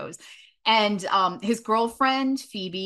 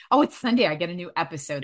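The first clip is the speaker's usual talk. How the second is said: excited; faster than usual. Retold or imitated. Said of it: "where I'm like".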